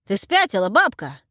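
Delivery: loud angry yell. A narrator's reading. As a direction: roar at the crazy old woman. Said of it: "заорал мой картавый друг". (орёт на бабку)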